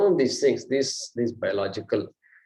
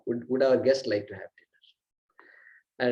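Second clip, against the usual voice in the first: respectful way to ask; slower than usual. Shown as a demonstration. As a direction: hush it gently, deferring to the guest.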